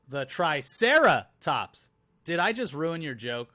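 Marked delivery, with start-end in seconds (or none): 0.1-1.9 put-on slow, louder girl reply. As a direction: drag it out as the girl. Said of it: "She says".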